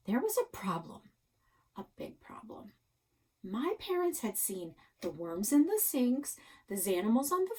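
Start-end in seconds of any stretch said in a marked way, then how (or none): 1.8-2.7 hushed aside, unvoiced; whispered worry. A narrator's reading. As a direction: breathe it like a secret.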